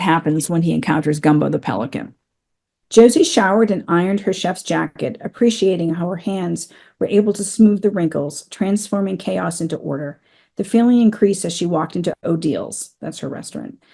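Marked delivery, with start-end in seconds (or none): 2.9-12.9 steady, measured reading of a novel passage; story narration. Acted. Author reading her book aloud to podcast listeners, measured narration. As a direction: read it like the audiobook, unhurried and clear.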